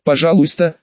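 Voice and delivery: ordinary delivery, nothing marked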